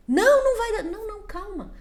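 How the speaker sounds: high, loud sharp refusal; firm parent no. Retold or imitated. Parent to child wanting to hit his brother, loud firm no. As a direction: cut the child off firmly.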